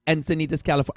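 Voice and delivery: a lightly put-on Jamaican accent, cheery; hammed-up bad Jamaican accent greeting. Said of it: "the worst Jamaican accent ever".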